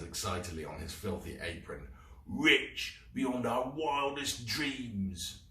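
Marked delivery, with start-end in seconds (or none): 2.3-5.4 gloating. Acted. Gilroy gloats excitedly.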